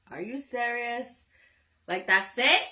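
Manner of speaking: high, loud, disbelieving cries; shrill comic shock at a letdown; incredulous outrage. Retold or imitated. Outraged quote of her dream reaction.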